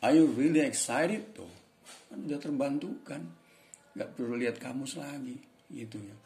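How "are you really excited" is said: "Are you really excited?" said as a clear model question; teacher demonstrates "Are you really excited?" for the class; pronunciation demo. Shown as a demonstration. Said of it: "Bacanya gimana coba?".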